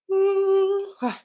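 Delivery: a big real yawning sigh; long sleepy yawn mid-stream; tired yawn. Real, not acted. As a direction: let a weary yawn out. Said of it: "I keep yawning".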